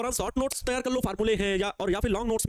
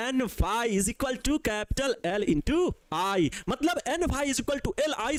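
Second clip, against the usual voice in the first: slow dictation; much slower than usual. Shown as a demonstration. Dictating the formula slowly.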